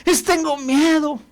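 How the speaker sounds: high, whiny list of excuses; mock the self-pitying victim; whining complainer. Mocking poverty mentality.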